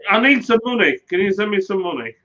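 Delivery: imitating wife. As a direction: mimic her pleading for cash. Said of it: "She rang me".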